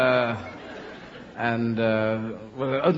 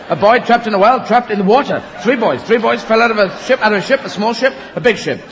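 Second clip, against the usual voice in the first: louder, higher mock alarm; mock urgent dolphin; 4 semitones higher, 4 dB louder than usual. Flipper telling of boys in trouble, mock urgent and loud. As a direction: blurt out the emergency in a hammed-up rush. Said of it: "Always having a problem".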